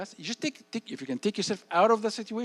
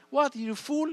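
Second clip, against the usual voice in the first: high, loud mocking jeer; mocking friend; 9 semitones higher, 6 dB louder, slower than usual. Peer taunting the kid who leaves, in a high loud jeer. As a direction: sneer like a teasing peer.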